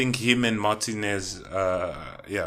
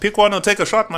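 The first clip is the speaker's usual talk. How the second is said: excited; 9 semitones higher, 7 dB louder, faster than usual. Real, not acted. Pushing friend to choose.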